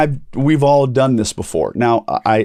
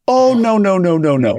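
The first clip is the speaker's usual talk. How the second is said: firm refusal; 9 semitones higher, 3 dB louder than usual. Retold or imitated. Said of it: "And she said".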